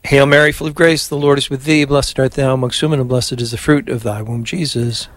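steady devout Hail Mary; prayer recitation. Acted. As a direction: lead the prayer evenly. Leads the rosary.

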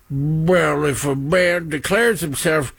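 put-on a weak stab at a British accent, soon dropped; failed British accent. Host mocking a UK minister, half-hearted British accent. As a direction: start in a posh British accent, then give it up. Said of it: "no, that's not a British accent".

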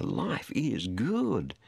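drawn-out, self-satisfied quote; mock party-goer contentment. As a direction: stretch it out like a carefree reveller. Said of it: "having a big party saying".

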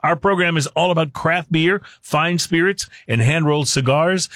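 radio host intro patter; show-opening announcer. Acted. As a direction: present the program like a practised announcer.

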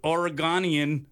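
"Oregonian" drawn out as or-e-GON-ian; playful mispronunciation. Pretend. Playful drawn-out caller introduction.

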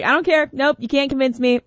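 high, stubborn mock protest; mock stubborn refusal. Host mimicking a stubborn partner, mock stubborn high. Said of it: "It's like".

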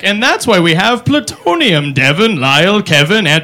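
put-on slow old grandpa listing names. Grandpa lecturing kids, listing every name. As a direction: ramble through the family like a grandpa. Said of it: "Lessons from him were like".

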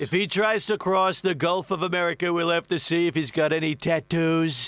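lightly voiced blustering president; a hint of a boastful US president, rambling; boastful president riffing on beef; President impression. Same president voice.

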